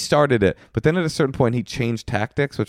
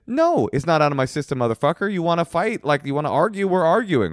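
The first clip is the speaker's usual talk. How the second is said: mock aggro; 7 semitones higher than usual. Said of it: "getting really aggro on him".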